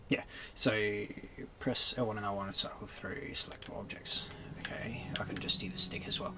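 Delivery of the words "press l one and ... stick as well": whispering. Real, not acted. Quietly reading the game prompt.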